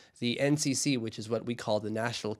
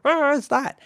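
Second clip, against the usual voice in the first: high, loud, failed Russian accent; would-be Russian accent; 13 semitones higher, 8 dB louder, slower than usual. Shown as a demonstration. Showing he has no accents, mock Russian accent. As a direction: badly fake Russian with the same loud stock voice.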